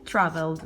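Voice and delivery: traveled ending in a voiced D; final D sound. Shown as a demonstration. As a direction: say traveled with the -ed as just a D. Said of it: "con D".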